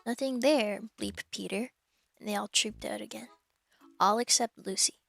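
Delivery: measured, clear audiobook reading; steady storybook narrator; story narration. A narrator's reading. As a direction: read the story aloud to listeners. Resumes reading the novel.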